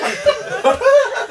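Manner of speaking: laughing cry while running away; gleeful yell. Acted. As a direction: call it out through laughter, mock triumphant. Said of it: "That's what she's yelling as she's running".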